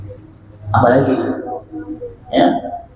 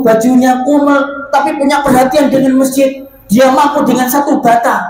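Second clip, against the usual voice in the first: moved, emotional; 9 semitones higher than usual. Acted. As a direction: sound deeply touched by a poor man's gift. Preacher acts moved Pak Haji. (suara tinggi dan keras, terharu)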